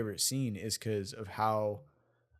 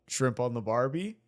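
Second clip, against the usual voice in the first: put-on failed Australian accent. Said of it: "I can't do an Australian accent".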